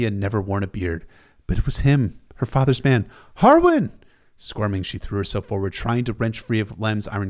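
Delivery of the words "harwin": very high, loud desperate cry; calling out. A narrator's reading. Arya calling to her father's man, crying out. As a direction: yell the name to be recognized.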